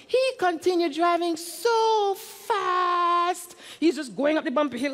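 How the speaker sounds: breathless thrill at the speeding truck; excited storytelling. A narrator's reading. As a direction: tell it like the chase is on.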